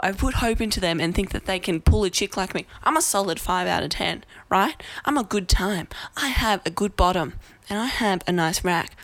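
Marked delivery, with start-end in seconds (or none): 5.1-9.0 whispering it like a secret; hushed breathy confiding aside; whispered. Real, not acted. To viewers, hushed brag about her looks, whispered.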